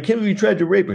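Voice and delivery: high-pitched indignant accusation; mock outrage. Friend confronting the guy in the film, high mock outrage. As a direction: confront him in high, hammed-up disbelief. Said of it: "he's like".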